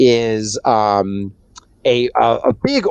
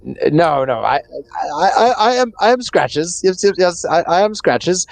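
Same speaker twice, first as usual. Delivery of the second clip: stammering, higher-pitched cat character; flustered cat, tripping over words; Scratches; 4 semitones higher than usual. Acted. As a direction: insist in a higher, stumbling voice. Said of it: "he says".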